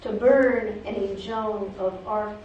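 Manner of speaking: measured poem recital with frequent pauses; poetry reading. Acted. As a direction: read it as a poem, phrase by phrase. Reads own poem aloud.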